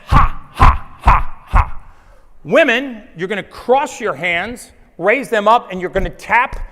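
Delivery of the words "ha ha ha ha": loud breathy shouted has; shouted ha breaths. Shown as a demonstration. Coach demonstrating the chest-tap breath to men, loud. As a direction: punch each ha out with the chest. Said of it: "tap our chest like this".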